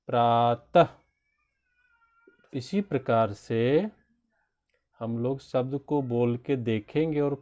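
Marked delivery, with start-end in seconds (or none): 0.1-0.9 प्रातः with a loud, forceful final तः; stressed syllable. Shown as a demonstration. Teacher giving stress examples, प्रातः punched on its ending. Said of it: "ज़्यादा विशेष बल लगा के बोलते हैं".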